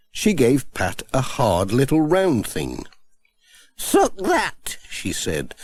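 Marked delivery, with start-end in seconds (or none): 3.8-4.8 high, slow, kindly grandmother; kindly old granny. Acted. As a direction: ask with grandmotherly concern. Granny Dryden.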